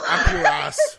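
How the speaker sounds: mock Australian sign-off. Shown as a demonstration. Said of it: "A true Australian ending".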